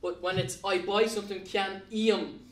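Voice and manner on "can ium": "ium" said with an "ee" glide into "um"; ium sound. Shown as a demonstration. Teacher showing students the "ium" ending, clearly sounded. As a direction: stretch "ium" as "ee-um". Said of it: "it brings that noise up to ium".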